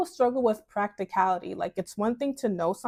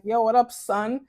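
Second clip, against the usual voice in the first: mild New York street greeting; New York slang; 4 dB louder than usual. Retold or imitated. Newcomer greeting laid-back Michigan students in New York slang. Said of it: "with my little slang".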